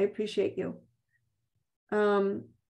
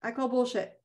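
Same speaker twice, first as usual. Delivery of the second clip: softer, settled repeat of I call bullshit; second take, dropped and quieter; quiet firm repeat; 5 dB quieter than usual. Shown as a demonstration. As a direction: say it again, calmly certain. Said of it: "or going".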